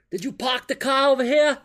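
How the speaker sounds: high, loud mock samurai challenge. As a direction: play a silly samurai demanding answers. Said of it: "he's like a samurai".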